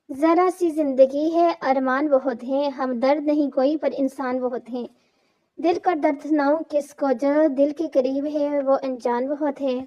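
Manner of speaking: slow, measured poetic recital; poem recitation. A narrator's reading. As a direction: recite it like a sad couplet. (धीमी, दर्द भरी शायरी)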